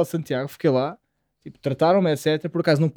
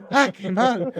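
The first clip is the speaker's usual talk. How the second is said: higher, alarmed cry of a shocked medic; 5 semitones higher, slower than usual. Retold or imitated. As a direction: blurt it out like a startled paramedic. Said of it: "uma reação genuína do profissional".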